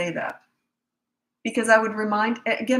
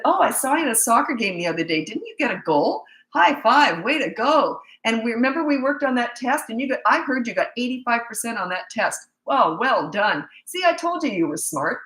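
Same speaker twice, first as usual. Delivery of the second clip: put-on higher, lively praise for a kid; upbeat praise; 4 semitones higher than usual. Lady praising the sulking boy beside her, mildly excited. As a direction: pump the boy up with cheer.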